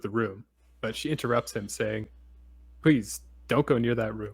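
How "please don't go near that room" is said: too energetic. Shown as a demonstration. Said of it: "Too much energy".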